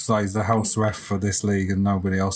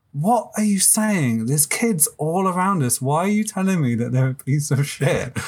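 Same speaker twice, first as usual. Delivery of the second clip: higher-pitched, incredulous retelling of a dad's protest; mildly appalled, imitating a dad challenging a parent; acted remonstrance; 5 semitones higher than usual. Dad confronts the screaming parent.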